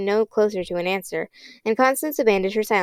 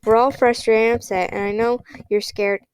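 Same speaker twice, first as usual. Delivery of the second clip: calm. Acted. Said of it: "as calmly as he could".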